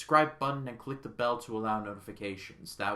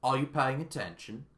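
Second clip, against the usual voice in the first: a light British accent like Michael Caine. Shown as a demonstration. Reviewer quoting the film's first line, light British accent. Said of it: "let me do that in the accent".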